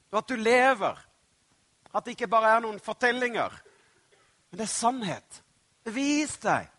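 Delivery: desperate shouted prayer with bursts of force; desperate cry. Shown as a demonstration. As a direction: cry out in prayer, urgent and imploring. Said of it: "Rope litt i desperasjon".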